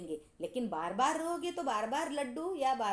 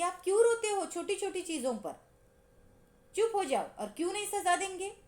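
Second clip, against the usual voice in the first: lightly voiced teacher, higher, asking why; teacher questioning; 6 semitones higher than usual. Raat Rani asks Anil why he cries, mild questioning teacher voice. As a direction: ask the crybaby what's wrong, pitched up. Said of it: "उन्होंने सवाल किया कि".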